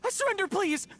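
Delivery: high, desperate cry of surrender; surrender shout. Acted. Thief gives up, begging.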